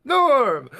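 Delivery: loud, cheerful bar-crowd greeting; Cheers crowd shout. Retold or imitated.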